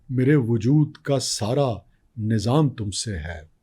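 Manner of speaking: slow tender poetic recital; nazm recitation. Acted. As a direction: recite each line slowly, savouring it.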